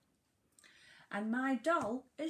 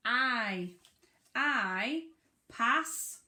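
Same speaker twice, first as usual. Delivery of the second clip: louder, each word punched; emphatic teacher reading; 2 semitones higher, 6 dB louder, much slower than usual. Shown as a demonstration. Teacher building the sentence with the class, louder. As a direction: call out each word clearly. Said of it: "What was the first word".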